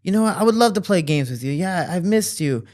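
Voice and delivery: lightly voiced dad opening up; confiding dad. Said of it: "he starts confiding to me".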